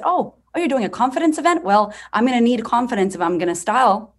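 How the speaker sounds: high, eager mock client voice, a bit fast; squeaky excited women asking; bubbly imitation of the customers; mimicking clients. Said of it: "and they said".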